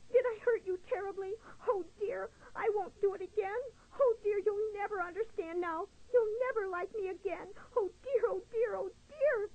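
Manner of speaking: high, tearful turtle voice, sobbing apology; little turtle crying his heart out. Acted. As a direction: sob through each oh dear. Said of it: "He was sobbing his little heart out".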